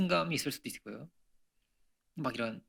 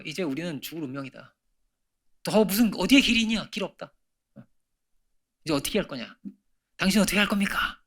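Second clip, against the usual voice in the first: retold angry crowd; 2 semitones higher than usual. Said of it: "막 화를 냈죠".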